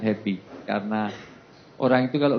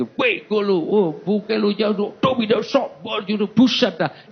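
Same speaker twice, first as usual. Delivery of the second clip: makian santai logat Betawi, nada lebih tinggi; 8 semitones higher, slower than usual. Acted. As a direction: ucapkan ala Betawi yang akrab dan bercanda. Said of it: "Enaknya ya". (contoh makian Betawi yang terasa akrab, logat Betawi)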